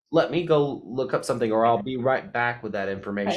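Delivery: assured, even-paced offer to help; confident. Retold or imitated. Gallery worker promising patrons an answer, confident. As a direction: state it surely, without hesitating. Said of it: "telling someone confidently".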